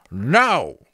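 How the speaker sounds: high, slow creaking taunt; creaking skull voice. A narrator's reading. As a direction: creak and knock like branches in wind. Talking skull refusing.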